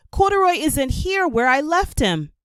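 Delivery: high, loud and worried; upset child. A narrator's reading. Lisa telling her mother the bear is gone, high and loud. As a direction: blurt out the bad news.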